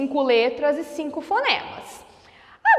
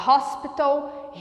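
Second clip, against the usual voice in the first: English pronunciation. Shown as a demonstration. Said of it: "Em inglês a gente fala".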